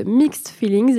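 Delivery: heavy English pronunciation of "Mixed Feelings"; English accent you could cut with a knife. Real, not acted. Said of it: "excusez-moi mon accent anglais à couper au couteau".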